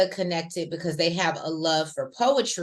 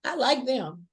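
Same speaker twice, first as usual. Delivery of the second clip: gushing excitedly; 5 semitones higher, 4 dB louder than usual. Retold or imitated. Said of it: "I said".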